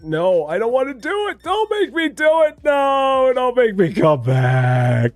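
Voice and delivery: high, loud whining shout; Fred's protest. Pretend. Fred the store clerk refusing to return, high whining shout. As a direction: yell it as the unwilling Fred. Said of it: "He's like".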